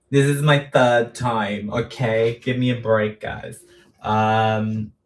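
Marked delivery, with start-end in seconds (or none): 0.1-3.6 a light put-on American accent; playful mock American accent. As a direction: say it like a laid-back American. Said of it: "I don't know why I went all American".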